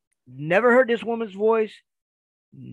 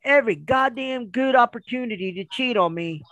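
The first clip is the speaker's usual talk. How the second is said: higher-pitched scolding complaint; imitated exasperated wife; 5 semitones higher than usual. Wife scolds husband over missed chances, mock exasperation. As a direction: scold as the fed-up wife, acted.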